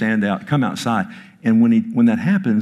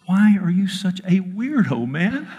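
laughing question; 9 semitones higher than usual. Real, not acted. Laughing while teasing friend.

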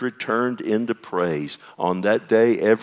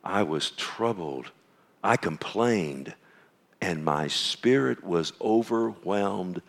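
heavy lament; 5 dB quieter, slower than usual. Shown as a demonstration. Pastor correcting himself with Asaph's real words, soft and slow. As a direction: let the weariness drag each word.

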